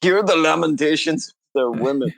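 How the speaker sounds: put-on lamentations line in a light Spanish accent; a touch of Spanish accent, rising at the end. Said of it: "going into a Spanish accent".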